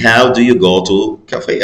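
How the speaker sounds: how do you go to cafe, each word slow and clear; slow model answer. Shown as a demonstration. Teacher reading the right answer to sixth graders, slow and clear. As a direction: read the answer out slowly for the class. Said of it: "لكن ممكن أقول".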